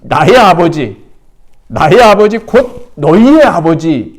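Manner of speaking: solemn quote. Retold or imitated. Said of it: "본문에서 뭐라고 말하냐면".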